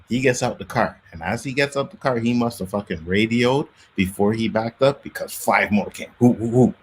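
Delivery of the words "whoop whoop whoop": siren whoops. Retold or imitated. Imitates more police cars arriving.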